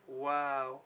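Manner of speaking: long, level wow, lightly imitated; awed child. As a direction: stretch out a kid's mild wow. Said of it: "he's like".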